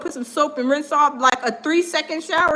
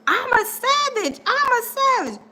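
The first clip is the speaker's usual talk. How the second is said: higher, proud chant of savage; mocking a self-proclaimed savage boasting; 9 semitones higher than usual. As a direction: brag it twice, full of swagger. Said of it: "And I'm like".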